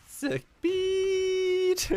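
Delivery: squeaky high "Sick beat!" shouted; mock hype. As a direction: ham it up like a fake fanboy. Mocking the song as a banger.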